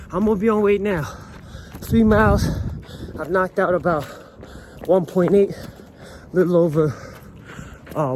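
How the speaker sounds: talking while jogging, breathing hard; while running. Real, not acted. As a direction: speak mid-run, puffing between phrases. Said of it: "I'm currently running".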